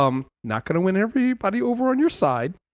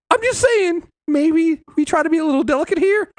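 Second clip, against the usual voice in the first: pitched up, pleading and tentative; a lightly voiced higher Mark, pleading; 6 semitones higher than usual. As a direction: nervously ask a god to go easy.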